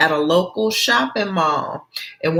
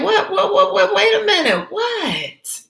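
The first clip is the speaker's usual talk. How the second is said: very high, laughing whats; laughing excitement. Acted. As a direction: Gina giggling, eager to know. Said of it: "Gina's like".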